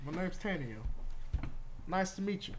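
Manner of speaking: put-on light southern-accented elf; mild Texan-style southern lilt. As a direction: greet them with a touch of southern twang. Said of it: "giving her a southern accent".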